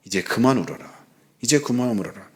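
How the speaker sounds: put-on soft, hushed voice of God consoling a crying child; tender consoling whisper-soft voice; gentle comfort. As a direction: quietly soothe someone who can't stop weeping. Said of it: "위로해 주신대요".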